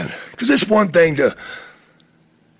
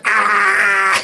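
imitated snake gape; 4 semitones higher than usual. Imitates snake's open mouth.

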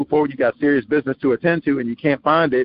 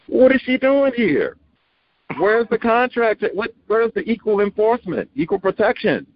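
mock indignant; 7 semitones higher than usual. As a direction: play up the disbelief, dragging each question out. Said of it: "and you're like".

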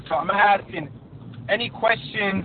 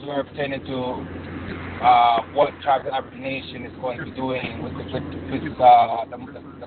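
far from mic; 3 semitones lower than usual. Real, not acted. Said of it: "You sound far away".

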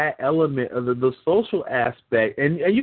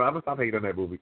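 lower, softer, serious promise; sober; 7 semitones lower, 7 dB quieter, much faster than usual. Shown as a demonstration. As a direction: say it soberly and gravely.

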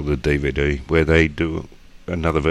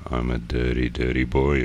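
Australian accent; 4 semitones lower than usual. Shown as a demonstration. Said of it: "It's called Australian".

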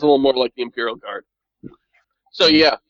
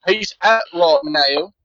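very slow, stretched-out bad British; bad British accent; much slower than usual. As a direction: repeat it slowly in a mangled British accent. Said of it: "it's a really bad British".

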